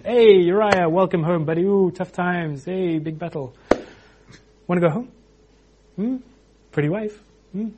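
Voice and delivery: hammed-up chummy coaxing, opening loud; mock friendly persuasion with teasing "Hmm?"; coaxing buddy. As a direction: sweet-talk him like a pal covering up. David cajoling Uriah to go home.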